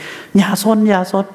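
high, slow parental scolding; scolding a child. Retold or imitated. Parent telling a naughty child to behave, slow and high. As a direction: drag out the warning like a nagging parent. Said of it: "หรือต่อให้มีลูกสักคน".

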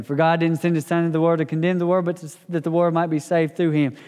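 fast, rote run through a verse you know by heart; rushed reading. Shown as a demonstration. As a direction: rattle it off without really reading. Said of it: "or you read it fast".

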